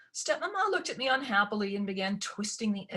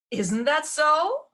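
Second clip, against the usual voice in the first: slow, louder, pressing question; voice rising; 9 semitones higher, 7 dB louder, much slower than usual. A narrator's reading. Ella presses her stepmother for an answer, voice rising. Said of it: "My voice rose".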